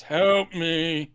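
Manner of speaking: imitated sad monster plea; drawn-out, lightly voiced monster. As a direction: plead like a movie monster. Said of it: "Sad monster".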